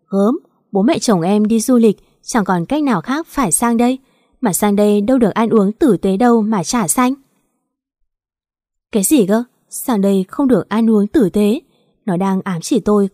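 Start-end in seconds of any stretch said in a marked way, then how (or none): 0.1-7.1 sulky complaint. Acted. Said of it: "Nó nhìn tôi nguyết dài". 8.9-11.6 disbelieving question rising on tử tế; indignant echo. Acted.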